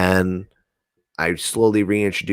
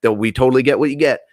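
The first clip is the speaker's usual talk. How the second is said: chill entity voice; 6 semitones higher, 4 dB louder, faster than usual. Retold or imitated. Entities answer the friend.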